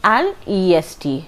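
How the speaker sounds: slow, even textbook dictation; teacher reading a grammar rule slowly. Shown as a demonstration. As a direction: read the rule out carefully for students. Reads grammar rule from book.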